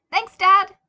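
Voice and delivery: put-on high, loud delighted child; excited thanks. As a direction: burst out happily, loud. Happy boy thanks father.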